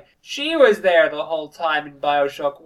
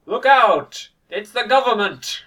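mock alarm; 6 semitones higher, 7 dB louder, slower than usual. Mock warning cry in retelling.

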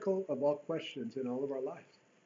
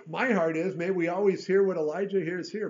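louder, heartfelt plea; a louder, heartfelt wish; fervent appeal; 3 semitones higher, 8 dB louder than usual. Real, not acted. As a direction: pour your heart into it. Earnest prayerful appeal.

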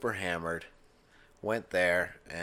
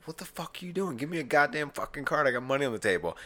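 put-on higher, louder drunken yell for a card; drunk angry demand; 8 semitones higher, 3 dB louder, faster than usual. Drunk gambler yelling at the dealer for a card, angry. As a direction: snap at the dealer like a sore loser. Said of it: "And I'm like".

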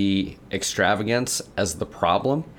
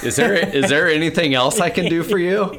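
much higher, louder hammed-up eager child; eager kid; 9 semitones higher, 5 dB louder than usual. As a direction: overdo the helpful child asking for more work. Kid offering help, hammed up.

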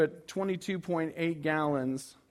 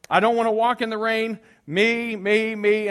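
much higher and louder frustrated rant; 6 semitones higher, 7 dB louder than usual. Retold or imitated. Pastor retelling his frustrated inner rant about gas and the game. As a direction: vent self-centered panic. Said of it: "I'm just getting frustrated".

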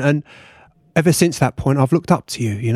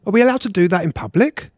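high flustered voice; 5 semitones higher than usual. Acted. Wife spotting embrace on mountaintop.

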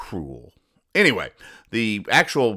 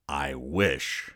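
inner thought; 6 semitones lower, 8 dB quieter than usual. Retold or imitated. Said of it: "to herself in a thought balloon".

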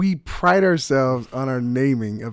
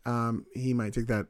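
softer, confiding answer; quiet candid answer; 3 semitones lower, 8 dB quieter than usual. Pretend. Host answering the fan's question, soft and confiding. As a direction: lower the voice and confide. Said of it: "We do a little role play".

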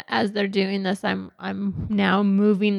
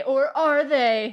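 dramatic tease; 5 semitones higher, much slower than usual. Acted. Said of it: "And I just say".

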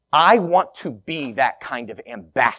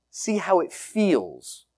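"See how it feels" drawn out slowly, each word given space; slow, lingering repeat; 3 semitones higher, 4 dB quieter, slower than usual. Real, not acted. Pastor inviting the congregation to feel the prayer, slow. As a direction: let "See how it feels" hang, unhurried and soft. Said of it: "repeated invitation, second take slower".

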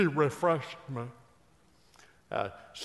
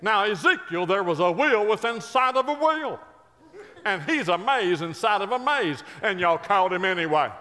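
loud, high preacher cadence with drawn pauses; exuberant preaching; 6 semitones higher, 5 dB louder than usual. Real, not acted. Preacher riffing to the congregation about Billy Graham, exuberant preaching. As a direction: build it up like a revival preacher.

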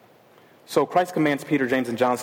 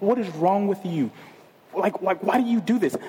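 higher, mock-mad scolding of the puppy; half-playful frustration at a messy dog; exasperated scolding; 4 semitones higher than usual. Preacher imitating himself scolding the puppy, mock exasperated. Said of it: "And I get so mad".

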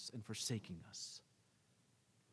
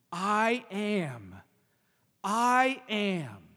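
loud, ringing I am; emphatic declaration; 4 semitones higher, 7 dB louder, much slower than usual. Retold or imitated. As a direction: proclaim it with full weight, louder.

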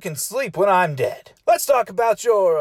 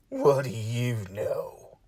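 low, soft, slow deadpan; deadpan aside; 8 semitones lower, 9 dB quieter, slower than usual. Acted. Mock surprise at fifty fans.

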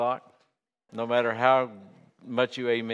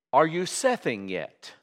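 put-on Yorkshire accent; 4 semitones higher than usual. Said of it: "in his accent and the way he was saying".

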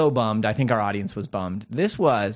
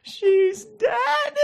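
wailing shout. Retold or imitated. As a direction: cry out in shocked grief. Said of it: "someone sitting there and goes".

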